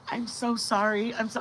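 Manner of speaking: softly mimicked repeated apology; imitated apology. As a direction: imitate an apologetic passenger, a little hushed. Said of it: "She kept going".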